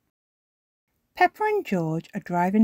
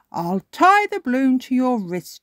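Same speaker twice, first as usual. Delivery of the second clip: a touch of a higher dad voice; lightly voiced Daddy Pig; 7 semitones higher, 6 dB louder than usual. A narrator's reading. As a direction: explain kindly. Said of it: "he says".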